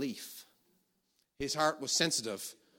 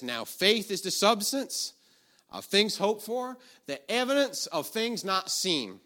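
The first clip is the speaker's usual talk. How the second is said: slow, higher-pitched deliberate quoting; scripture recitation; 6 semitones higher, slower than usual. Real, not acted. Preacher quoting the famous faith scripture, declaiming slowly. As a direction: declaim the verse phrase by phrase.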